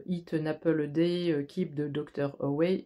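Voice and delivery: English proverb in a heavy French accent. Shown as a demonstration. Reader quoting an English proverb to the viewer in a French accent. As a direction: say the English saying with French vowels and rhythm. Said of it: "Excusez-moi mon accent anglais".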